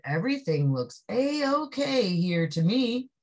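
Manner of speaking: lightly voiced policeman. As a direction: settle it with easy satisfaction. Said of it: "The policeman said".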